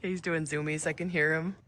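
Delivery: normal talking voice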